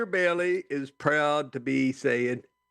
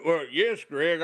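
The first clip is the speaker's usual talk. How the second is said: ordinary talk, nothing marked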